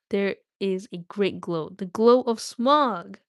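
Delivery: steady read-aloud narration; story narration. Acted. Streamer reads The Hobbit aloud.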